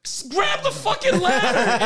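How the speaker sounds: high, drawn-out mock panic; hammed-up high cry for help; retold panicked yell. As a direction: plead as if dangling from a tree. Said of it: "I'm like".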